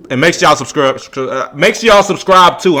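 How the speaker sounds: tripping over the words; stuttering. Real, not acted. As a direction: stumble through the line. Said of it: "I'm stuttering this shit".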